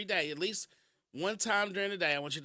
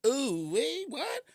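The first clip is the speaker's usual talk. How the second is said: rude lady voice; 8 semitones higher, much slower than usual. Retold or imitated.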